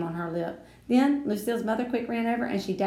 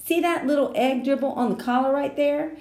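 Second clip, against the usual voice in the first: put-on boy voice; 4 semitones higher, 6 dB louder than usual. A narrator's reading. Sheldon showing off stain.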